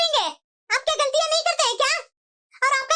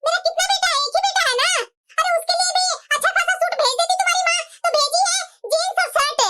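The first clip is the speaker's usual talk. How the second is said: lightly raised, nagging mother-in-law scolding; taunting mother-in-law; 3 semitones higher than usual. Acted. Mother-in-law taunting her daughter-in-law over the shagun, mild nagging scold. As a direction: needle her about the cheap gifts.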